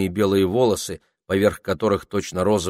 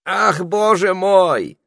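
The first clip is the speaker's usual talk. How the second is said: slow, drawn-out exasperated sigh; sighing parrot; 12 semitones higher, 8 dB louder, much slower than usual. A narrator's reading. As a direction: sigh it out wearily. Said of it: "вздохнул попугай".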